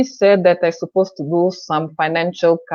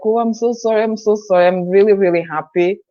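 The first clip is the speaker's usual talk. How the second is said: excited apology; 4 semitones higher than usual. Retold or imitated. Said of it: "I started to scream on the phone".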